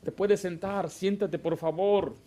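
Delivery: put-on calm, courteous request to a child; measured, patient parental request; polite request. Shown as a demonstration. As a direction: ask gently to sit down. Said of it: "Se les habla como se les debe hablar".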